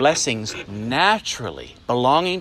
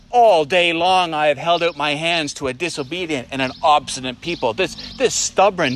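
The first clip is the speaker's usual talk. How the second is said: voicing an exasperated God. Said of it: "Shouldn't God say".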